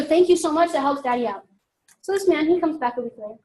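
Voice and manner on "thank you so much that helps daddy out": grateful thanks. Shown as a demonstration. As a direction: thank the girls warmly and gratefully. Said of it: "So every night you go".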